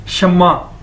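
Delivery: "शम्मा" as sham-ma with a doubled m; model pronunciation. Shown as a demonstration. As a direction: demonstrate "शम्मा" with a falling end. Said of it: "इसको बोलेंगे कैसे?".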